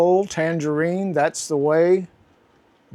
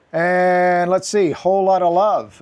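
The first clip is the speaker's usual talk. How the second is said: excited; 4 semitones higher, 5 dB louder than usual. Real, not acted. Excited reveal of record title.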